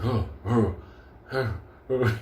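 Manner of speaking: imitated dog huffing; breathy dog huffs; dog panting. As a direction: huff like a twitching dog. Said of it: "making sound like".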